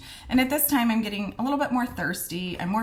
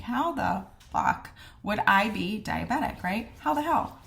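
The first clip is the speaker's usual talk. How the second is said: incredulous retort. Retold or imitated. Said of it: "And my exact words".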